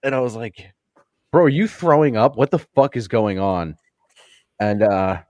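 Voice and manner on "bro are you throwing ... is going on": high, louder disbelieving question; incredulous. Retold or imitated. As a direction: ask him what on earth is wrong. Confronting the drunk soldier.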